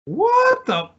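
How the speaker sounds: very high, drawn-out disbelief; real bafflement. Real, not acted. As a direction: pitch leaps up in confusion. Baffled by own forgotten retirement.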